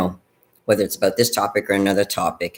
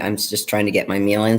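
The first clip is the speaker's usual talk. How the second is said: talking with mouth full; chewing steak. Real, not acted. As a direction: chew while you speak. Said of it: "talking with my mouth full sometimes".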